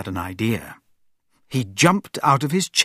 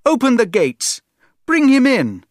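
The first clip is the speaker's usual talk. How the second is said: loud, much higher command; shouted order; 12 semitones higher, 7 dB louder than usual. Acted. Prince commanding soldiers at the gates, loud shout. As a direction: order the gates open at full voice. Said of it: "he shouted at the soldiers".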